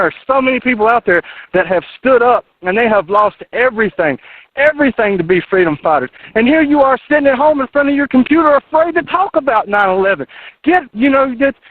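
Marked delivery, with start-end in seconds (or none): 6.4-11.6 rising to a higher, heated pitch; real frustration boiling over at the listeners; getting upset. Real, not acted. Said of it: "I'm getting upset".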